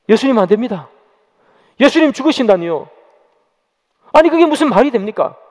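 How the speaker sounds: rising, mildly heated protest as Peter. Acted. Peter hears Jesus foretell his death, protesting. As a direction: object in mounting disbelief, pitch climbing. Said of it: "마가복음에 보면 항변했다".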